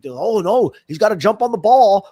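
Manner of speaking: high, excited play-by-play; mock game-show commentary. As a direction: call it like a thrilled announcer.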